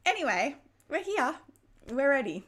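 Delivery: puffing after running the stairs; breathless, loud, catching her breath. Real, not acted. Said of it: "Now I'm puffing from running up and down the stairs".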